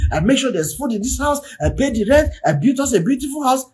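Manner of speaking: hammed-up offended husband listing what he provides; provoked husband. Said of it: "he's provoked, he's angry".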